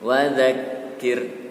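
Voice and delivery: slow "Wa dzakir" with a clear za; drawn-out, carefully articulated "Wa dzakir"; za distinct from da. Shown as a demonstration. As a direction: say "Wa dzakir" slowly, za never sounding like da. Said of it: "Harus beda dengan huruf da".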